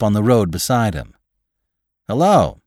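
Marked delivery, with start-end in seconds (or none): 2.1-2.6 high, loud hello; called greeting. A narrator's reading. Driver calling to a walker on the road, calling out. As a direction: call out a hello from inside. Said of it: "called the man inside".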